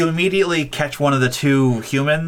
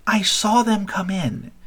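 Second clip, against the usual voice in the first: put-on higher, sharp child voice; snappy kid voice; 8 semitones higher, slower than usual. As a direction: snap at the others like a kid. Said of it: "other kids is just like".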